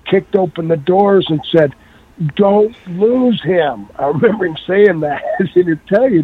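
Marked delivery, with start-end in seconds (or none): 2.4-3.9 slow, stretched retold plea; drawn-out plea. Friend at the emergency room doors, retold drawn-out plea. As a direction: imitate an urgent plea, every word drawn out.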